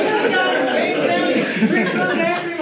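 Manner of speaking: high, loud excited imitation; excited play-by-play. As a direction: call out a chase as it happens. Acts out coach's frantic running commentary.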